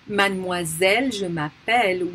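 Mademoiselle and m'appelle ending on a sounded L; final consonant pronounced. Shown as a demonstration. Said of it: "makes us pronounce a consonant".

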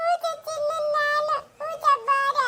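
put-on little child's stumbling baby talk; childish lisp. Child refuses a meal from the stranger, lisping. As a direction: lisp the words like a toddler. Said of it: "ತೊದ್ಲುಕೊಂಡು".

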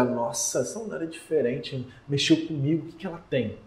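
hushed, amazed murmur to himself; softly, as if thinking it in awe; awed inner thought. Pretend. Admirer quietly amazed by a magnetic woman, hushed awe.

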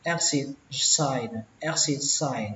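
"exit sign" with "exit" split into "ek" then "sit"; EXIT as "ech-xit". Shown as a demonstration. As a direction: say "exit" as two syllables, "ek-sit", before "sign". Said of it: "Các bạn nhớ là X".

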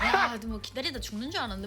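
mild grumbling in Gyeongsang dialect; half-joking Gyeongsang dialect complaint; Gyeongsang grumble. Shown as a demonstration. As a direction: Gyeongsang dialect muttered for others to hear. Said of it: "들으라고 꿍시렁 댈 때 경상도 말 써".

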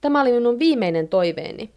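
high-pitched narrated lament; dismayed shout. A narrator's reading. Wife laments her last wish, high dismayed outcry. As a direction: cry it out, mildly dismayed. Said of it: "Heinoska huutaa".

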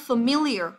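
familiar said as fuh-MIL-ee-ar, stress on second syllable; teacher models familiar for the class, stress on MIL; model pronunciation. Shown as a demonstration. Cô giáo đọc mẫu familiar, nhấn âm thứ hai. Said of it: "Nhớ cái cách đọc của từ này".

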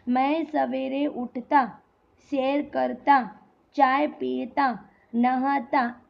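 slow list, break after उठता, करता and पीता; measured listing with a comma pause after each verb; pauses between items. Shown as a demonstration. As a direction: set each action apart, stopping after उठता. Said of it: "इन सब के बीच में".

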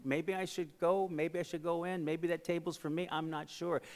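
softly acted self-doubt; soft, tentative musing; hesitant wondering. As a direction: think it aloud quietly, unsure of your welcome.

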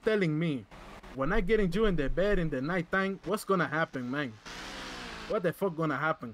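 lightly put-on Latino accent; mild hammed-up Latino accent. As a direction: talk it through a Spanish-flavored accent. Held accented character.

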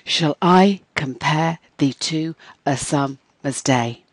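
slow, heavily metered verse, every second syllable stressed; hammed-up iambic reading. Shown as a demonstration. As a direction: exaggerate the da-DUM beat, as in "com-PARE". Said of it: "hamming up the expression".

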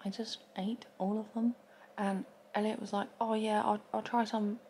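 secretive hushed confession; finger against lips. Real, not acted. Seen 1: finger pressed at mouth side until 7.8, then drops to chin.

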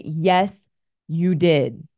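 firmly repeated husband's correction. Retold or imitated. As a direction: lean into it, strong but kind. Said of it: "strongly and firmly without any malice".

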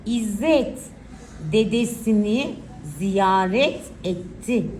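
put-on slow, clear dictation for children; dictating. Shown as a demonstration. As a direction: read each word out slowly for writing. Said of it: "Okuyacağım cümleleri iyice dinleyin".

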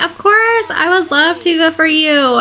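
a sweet grandma's happy yes; voicing Gabby. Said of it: "And Gabby's like".

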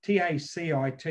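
T A C I T spelled letter by letter, each letter separate; spelling it out. Shown as a demonstration. Explaining a term to listeners, spelling T A C I T letter by letter. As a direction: spell out T A C I T one letter at a time. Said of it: "It's called tacit knowledge".

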